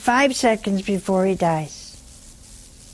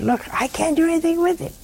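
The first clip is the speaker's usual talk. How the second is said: quick, higher, breathless little prayer; mock prayer to the Lord; 4 semitones higher, faster than usual. Wife praying to the Lord about her husband, a quick higher plea. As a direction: rattle off a surrendering prayer to God. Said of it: "Just say to the Lord".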